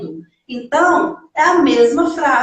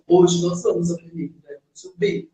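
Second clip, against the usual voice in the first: 1 mock teacher voice; 8 semitones lower, 4 dB quieter, faster than usual. Mocking typical English teacher.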